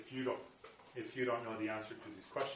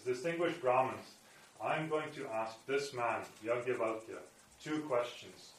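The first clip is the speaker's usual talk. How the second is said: louder, slow, commanding address to the assembly; bold challenge; 2 semitones higher, 6 dB louder than usual. Acted. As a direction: announce the challenge boldly and slowly to the gathered Brahmins. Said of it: "her mood is totally different".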